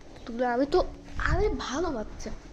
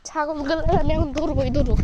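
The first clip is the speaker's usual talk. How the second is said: determined shout; 3 semitones higher, 8 dB louder than usual. Real, not acted. Determined to catch goats.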